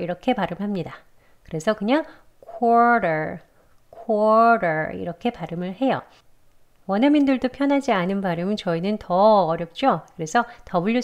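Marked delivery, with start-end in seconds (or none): 2.4-5.0 "quarter" as kor-der, no w glide; W left out. Shown as a demonstration. Teacher showing the easier way, "quarter" without the w. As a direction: say "quarter" straight from k into or, then der. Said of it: "이 W 소리를 내지 않고요".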